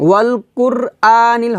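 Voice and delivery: ওয়াল কুর with an ordinary thin k; wrong light k. Shown as a demonstration. Teacher showing the mistake, কুর with plain k. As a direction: recite ওয়াল কুর আ নীল using k, not q. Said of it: "হবে না".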